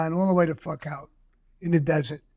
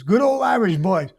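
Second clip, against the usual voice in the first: higher, chuckling country neighbor impression; mocking the farmer; 6 semitones higher than usual. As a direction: play the folksy bigot, laughing through it. Farmer neighbor's bigoted remark voiced.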